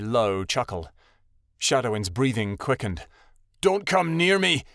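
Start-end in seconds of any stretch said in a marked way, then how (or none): 3.6-4.6 afraid. A narrator's reading. Shadowin backing away.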